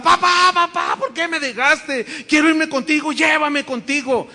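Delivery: high, loud wailing cry for papá; retold anguished cry. Daughter at her father's burial, crying out loud in anguish. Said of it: "volvía en sí y gritaba".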